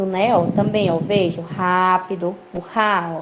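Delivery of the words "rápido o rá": "rápido" with a firm first syllable, then "rá" alone; stress on RÁ. Shown as a demonstration. Teacher showing the strong accent, "rá" stressed in "rápido". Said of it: "ó, acento forte".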